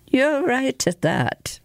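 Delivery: slow, musing reply; thoughtful. Acted. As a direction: weigh the words slowly. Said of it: "replied Sheeran thoughtfully".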